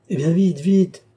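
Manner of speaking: high, loud hurrying; excited, pressing command; urgent. Acted. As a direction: urge him on impatiently. Countess hurries her brother.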